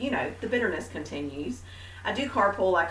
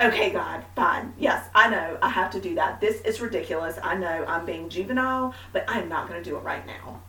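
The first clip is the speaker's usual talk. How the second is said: put-on childish sulking. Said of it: "I was like a little child with the Lord".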